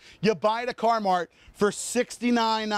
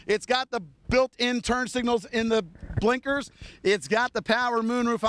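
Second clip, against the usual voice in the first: out of breath. Real, not acted. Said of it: "I'm out of breath".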